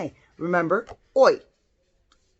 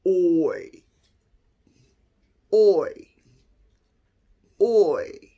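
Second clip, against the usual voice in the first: low voice; 3 semitones lower, 4 dB louder, much slower than usual. Shown as a demonstration. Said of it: "What about a low voice?".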